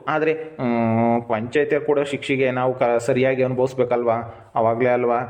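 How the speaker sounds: low, halting, measured voice; resigned explanation, pitched low; sober acceptance. Acted. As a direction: reason it out gravely. Brother accepting the village punishment.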